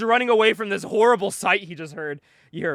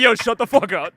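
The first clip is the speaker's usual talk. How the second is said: loud imitated telling-off; mock angry retort; 6 dB louder than usual. Man defending his girlfriend, mock angry. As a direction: retell it as a loud, heated warning.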